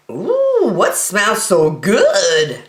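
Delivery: sniffing out something tasty; delighted child voice; curious kid. Acted. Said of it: "asked Brody".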